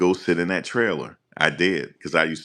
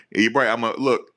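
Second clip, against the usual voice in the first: usual speaking voice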